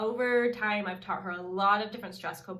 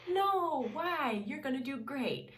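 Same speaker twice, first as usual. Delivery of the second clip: dismissive; 4 semitones higher, slower than usual. Retold or imitated. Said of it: "the first feeling that we have is to be dismissive".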